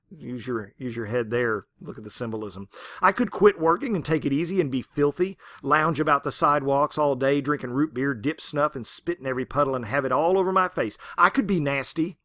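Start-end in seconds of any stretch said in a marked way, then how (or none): 3.0-12.2 sarcastic rant. Retold or imitated. Ruby raging at God.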